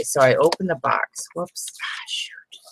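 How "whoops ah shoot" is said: much softer, a slip under the breath; whispered oops. Real, not acted. Fumbling the box, she whispers softly to herself. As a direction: whisper the little mishap to yourself.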